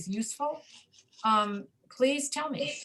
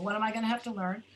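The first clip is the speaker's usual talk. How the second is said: fast reduced demo; faster than usual. Shown as a demonstration. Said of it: "teacher demonstrating reductions".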